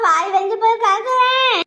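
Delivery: slow, whimpering complaint; crying. Acted. Daughter-in-law crying to her mother-in-law about her burnt mouth, whimpering. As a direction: whine it through tears.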